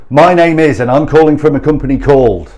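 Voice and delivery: scripted cold-call patter; mock telesales intro. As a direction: imitate a caller reciting a stock introduction. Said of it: "We don't talk like that".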